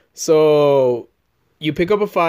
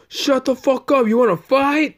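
retold challenge; 8 semitones higher than usual.

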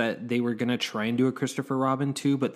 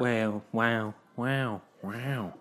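drawn-out actor-impression wows; Owen Wilson; 4 dB quieter, much slower than usual. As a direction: imitate the actor's signature wow. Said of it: "Owen Wilson voice".

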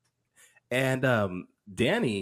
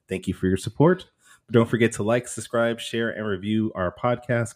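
announcer. Acted. Formal show intro read.

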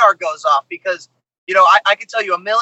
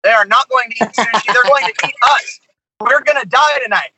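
mock panic; 3 semitones higher than usual. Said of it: "is what I was thinking".

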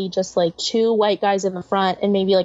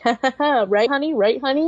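lightly mock a man's chuckle, higher pitch; higher, rising appeals to his honey; imitated chuckling dude; 4 semitones higher than usual. Comedian imitating a heckled couple's dude nudging his fiancee, mock chuckling. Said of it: "this dude just kept going like".

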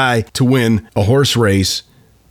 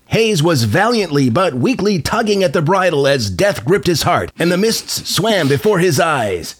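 put-on old-timey newsreel guy; 9 semitones higher than usual. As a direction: boom it out like a 1930s newsreel. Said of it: "I'm thinking old-timey newsreel guy".

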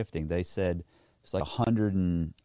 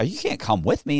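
higher, insistent protest; retold refusal; 5 semitones higher than usual. Man refusing to take girlfriend along, insistent. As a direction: refuse her in a raised pitch. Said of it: "We have this whole argument".

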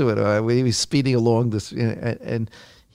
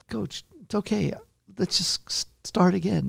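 soft, higher placating plea; retold attempt to soothe an angry coach; gently coax, hushed and high; 8 semitones higher, 5 dB quieter than usual. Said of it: "calm down, coach".

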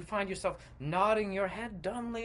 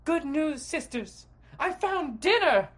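loud, higher-pitched gleeful announcement; calling out; 12 semitones higher, 8 dB louder, slower than usual. Acted. Sister announces the catch to her sisters, called out loudly. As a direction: call it out to the whole house. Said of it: "suddenly calls out".

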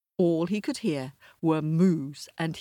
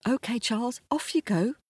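higher, light brotherly voice; Jack's voice; 8 semitones higher, faster than usual. Acted. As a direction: wave him off in a higher voice.

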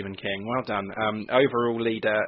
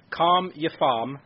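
slow Scouse demo line; model Scouse line; 5 semitones higher, much slower than usual. Shown as a demonstration. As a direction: say it slowly in Scouse for him to copy. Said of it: "have a stab at these three sentences".

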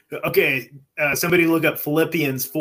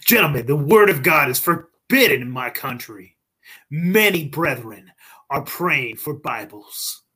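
Doctor Kozlov; slower than usual. Acted. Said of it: "Who's playing Doctor Kozlov? Is that me?".

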